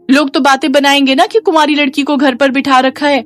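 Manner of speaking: high-pitched, grumbling daughter-in-law; scornful sister-in-law. Acted. (ताने मारती बहू की ऊँची आवाज़)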